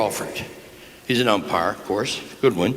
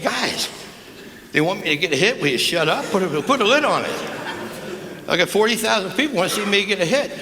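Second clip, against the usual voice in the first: higher, pleading to quit arguing; mock-exasperated plea, higher; 5 semitones higher than usual. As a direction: beg them to shut up, half laughing. Begging arguing umpire and catcher.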